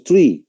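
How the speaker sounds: "three" said as tree, with T; mispronounced three. Shown as a demonstration. Teacher shows how learners say it, mispronounced three. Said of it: "Así de esa manera decimos three".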